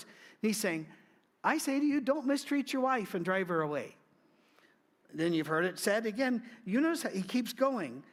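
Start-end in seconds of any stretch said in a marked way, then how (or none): 1.4-4.0 emphatic proclamation. Acted. Jesus's words voiced emphatically.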